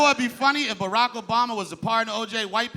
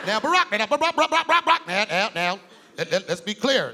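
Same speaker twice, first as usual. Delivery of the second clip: stuttering like a skipping record; Barack Obama. Acted. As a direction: mimic a politician stuck on his words. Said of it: "He's always stuttering".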